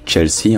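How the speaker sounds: "Chelsea" as if French, but starting tch; French-style reading. Shown as a demonstration. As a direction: read "Chelsea" with French vowels and rhythm. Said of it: "soit dit bien ch".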